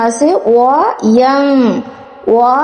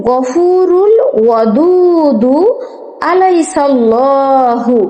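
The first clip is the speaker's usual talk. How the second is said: Quran recitation; much slower than usual. Shown as a demonstration. Recites the verse.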